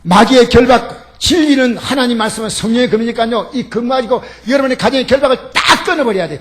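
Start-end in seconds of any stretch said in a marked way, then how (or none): 3.5-6.4 forceful, punching 끊어버려야 돼 loud; emphatic preaching. Acted. Preacher urging the congregation, loud 끊어버려야. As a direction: cut the chains, hit 끊어버려야 hard. Preaching climax, then echoed softly.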